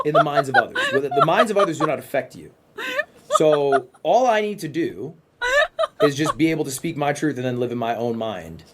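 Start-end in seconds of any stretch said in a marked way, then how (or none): 0.1-2.5 laughing. Real, not acted. Laughing through own speech.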